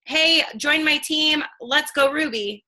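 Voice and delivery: slow, drawn-out recruiting line; pushy pitch. Shown as a demonstration. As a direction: show the wrong way, slowly. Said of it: "Don't just, like, go".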